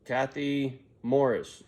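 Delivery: slow drawn-out store announcement; loudspeaker page. Retold or imitated. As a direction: call the name like a store intercom. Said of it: "They get on the loudspeaker".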